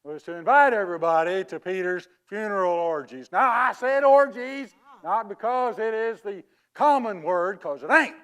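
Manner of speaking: badly faked English accent. Fraud explains his wrong word to mourners in a bad English accent. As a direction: pose as an Englishman with a poor accent. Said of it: "That is the worst English accent".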